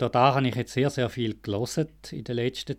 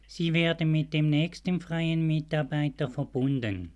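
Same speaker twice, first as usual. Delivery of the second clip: customer service voice. Pretend. Mock hold-line phone announcement.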